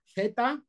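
Z as lisped "theta"; tongue between teeth for "zeta"; Castilian zeta. Retold or imitated. Teacher imitating a Spaniard, distinct Castilian z. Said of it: "a un español pronunciando".

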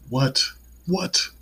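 high, loud startled double what; surprised. Real, not acted. Vlogger interrupted during sign-off, startled what. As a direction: snap to attention, startled. Sudden interruption near the outro.

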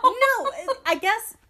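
laughing it off, a bit high. Real, not acted. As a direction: laugh while backing down. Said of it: "let me calm down".

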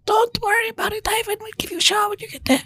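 cartoonish Russian accent; mock Russian accent. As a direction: squeak out a silly Russian accent. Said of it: "In the Russian accent on a train?".

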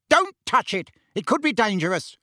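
high, urgent warning; roar. A narrator's reading. Uncle warning his wife off the letter, alarmed roar. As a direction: shout a warning, easing off at the end. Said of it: "roared Uncle Vernon".

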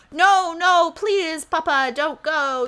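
put-on high, pleading child in a Scottish brogue; little Scottish brogue. Retelling Rumple begging his papa, in a Scottish brogue. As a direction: beg Papa to stay in a small Scottish brogue. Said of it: "in his little, little Scottish brogue".

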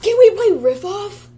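excited. Real, not acted. Excited high suggestion.

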